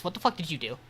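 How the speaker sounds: a hammed-up friend demanding answers; mock exasperated yell. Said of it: "He goes".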